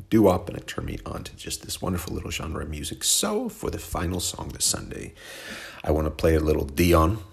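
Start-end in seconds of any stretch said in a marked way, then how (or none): 5.8-7.2 the singer's name with a light French accent, stress on the last syllable; a slight French lilt on the name. Real, not acted. Host announcing the last song, the singer's name in a light French accent. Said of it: "I said it in the French accent".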